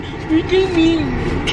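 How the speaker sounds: slow, drawn-out mock of his voice; mocking partner's voice. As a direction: drag it out like you're mimicking him. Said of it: "Tay always try to imitate my voice".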